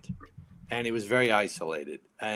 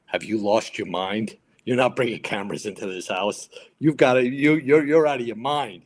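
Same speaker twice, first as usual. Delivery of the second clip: imitating an incredulous captain, louder as it builds; mock telling-off, leaning on the words; captain's rebuke; 6 dB louder than usual. Captain refusing cameras in his firehouse, building rebuke. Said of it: "he goes like this".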